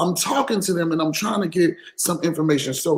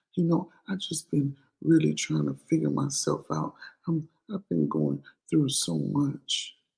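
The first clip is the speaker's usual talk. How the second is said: soft, hushed, disarming little put-on voice; 2 semitones lower, 8 dB quieter than usual. Mocking people who use a soft voice to disarm you, mock little soft voice. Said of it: "they got on that little soft voice".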